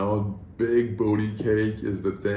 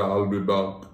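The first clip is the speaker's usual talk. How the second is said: lower, broader Austrian-style catchphrase with open "back"; Arnold impression; 6 semitones lower, slower than usual. Shown as a demonstration. Refining the Arnold impression for the co-host, low with broad "back". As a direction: correct it to a low Arnold, opening the vowel of "back". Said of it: "He's more like the".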